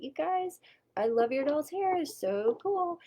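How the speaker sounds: high sing-song praise; talking to children. Retold or imitated. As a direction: gush over the dolls for the girls. Praising girls' doll hair.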